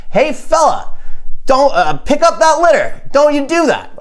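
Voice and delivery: high, held-back mock yell; mock scream. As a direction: imitate screaming at someone without full volume. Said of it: "I scream at the top of my lungs".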